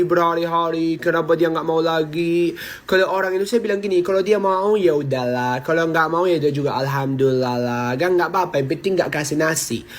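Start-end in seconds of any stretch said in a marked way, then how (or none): 4.0-9.9 easygoing, drops low on "ya udahlah"; imitating a carefree friend; laid-back, unbothered; relaxed shrug off. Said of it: "Sumpah santai kali hidup mereka".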